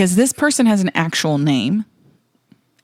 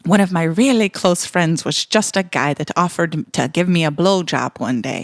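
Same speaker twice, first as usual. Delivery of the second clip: put-on clumsy Irish accent, reading a letter; lightly attempted Irish voice. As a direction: read it out in a bad Irish accent. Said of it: "how bad was my Irish accent".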